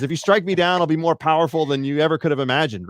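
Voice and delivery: light British movie-mentor voice; lightly voiced wise old Jedi; Obi-Wan Kenobi. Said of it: "no, it was Obi-Wan Kenobi".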